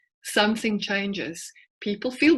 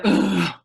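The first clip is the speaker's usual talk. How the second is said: put-on teen groan; 4 dB louder than usual. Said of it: "I get a".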